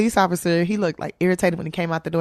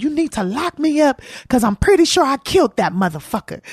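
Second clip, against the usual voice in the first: higher, laughing through the confession; half-laughing retold confession; 9 semitones higher than usual. Real, not acted. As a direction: crack up while telling the police. Retelling confession to police, laughing.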